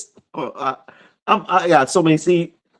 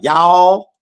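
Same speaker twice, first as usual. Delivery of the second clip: Southern drawl; 3 dB louder than usual. Retold or imitated. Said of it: "Sherry talks Southern".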